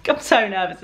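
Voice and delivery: "I'm so nervous" with a laugh. Real, not acted.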